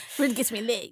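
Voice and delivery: quoting through laughter; laughing. Retold or imitated. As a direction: repeat it while cracking up. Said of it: "You sound like an old man with Viagra".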